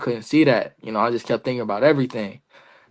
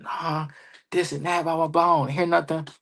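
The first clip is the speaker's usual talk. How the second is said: retold upset griping, pitched higher but softer; mildly acted, higher-pitched complaint; 3 semitones higher, 5 dB quieter than usual. Wrestler retelling his complaint after the match, upset. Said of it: "I was upset".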